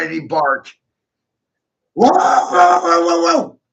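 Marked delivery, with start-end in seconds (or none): 1.9-3.6 loud, high mock whoa; high hammed-up whoa call. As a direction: cry out in pretend alarm. Mock alarm cry mid rant.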